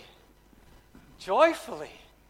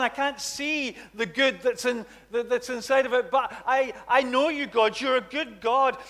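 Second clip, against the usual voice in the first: sample prayer in trouble; 3 semitones higher, 3 dB louder than usual. Shown as a demonstration. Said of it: "That's praying with thanksgiving".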